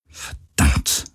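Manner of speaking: Verdammt tonlos geflüstert, tiefer; gemurmelt. A narrator's reading. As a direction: das Verdammt vor sich hin hauchen. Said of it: "murmelte sie immer wieder". (die Kapitänin murmelt flüsternd vor sich hin)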